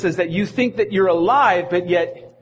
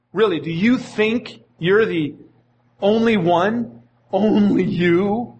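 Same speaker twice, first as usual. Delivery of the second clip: mocking disbelief; slower than usual. God mocking Elijah, drawn out.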